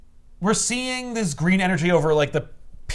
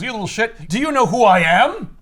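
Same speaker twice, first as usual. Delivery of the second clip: mock Luthor rage; 5 semitones higher, 5 dB louder than usual. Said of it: "Lex Luthor says".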